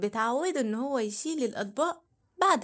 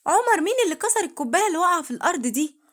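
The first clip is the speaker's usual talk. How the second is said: scolding mother; 5 semitones higher, faster than usual. Acted. Mother scolding about broken glass.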